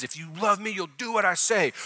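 imitating a parent's conditional love; strict parent. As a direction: lay down the law to a child, lightly acted. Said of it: "that's how we raise our kids".

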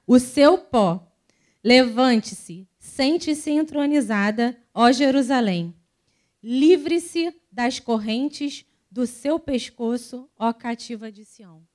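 slow, weighty Bible reading; scripture reading. Acted. Reading Isaiah to the congregation, slow and solemn. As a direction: read the verses like a proclamation.

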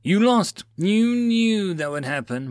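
high, drawn-out angry roar; fierce roar. A narrator's reading. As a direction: roar the accusation at him. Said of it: "Moal roared fiercely".

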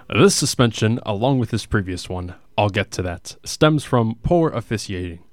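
booming hockey arena announcer. Pretend. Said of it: "I can't do this in that voice".

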